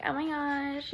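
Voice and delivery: put-on a light valley girl "Oh my gosh"; a touch of valley girl; lightly mocking valley girl voice. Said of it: "valley girl talk".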